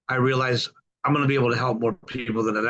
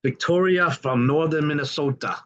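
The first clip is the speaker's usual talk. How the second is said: attempted Minnesota accent, not quite there; 3 semitones higher than usual. Host introducing newcomer Victoria, half-managed Minnesota accent. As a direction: try a light Minnesota accent. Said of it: "I can't even do that accent".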